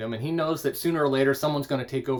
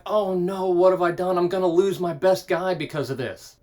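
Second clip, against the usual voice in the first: a touch of panic, louder and higher; mildly hammed-up panicked king; freaking out; 4 semitones higher, 5 dB louder than usual. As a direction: fret over losing your best man. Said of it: "he's so upset, he's like".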